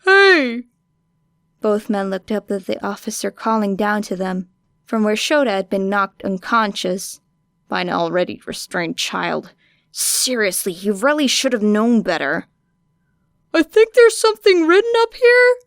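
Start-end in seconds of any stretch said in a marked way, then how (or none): 0.1-0.6 loud call from a distance, pitched up; officer calling down to the two men. A narrator's reading. 13.5-15.6 higher, louder officer voice; officer calling down about a discovery. A narrator's reading. Officer voice, high.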